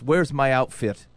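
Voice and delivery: slow, mildly bratty "Where's my outfit?"; a hint of a petulant child; foot-stamping whine. Friend mocks a petulant outfit demand, lightly bratty. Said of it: "in such a way where they stamp their foot".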